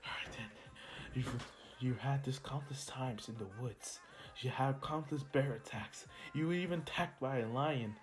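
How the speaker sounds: a hint of a hero steadying himself; inner pep talk. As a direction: coach yourself quietly. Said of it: "and Izuku's like".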